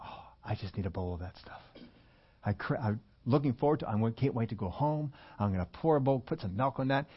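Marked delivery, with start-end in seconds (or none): 0.0-1.6 craving. Acted. Acting out his craving while running.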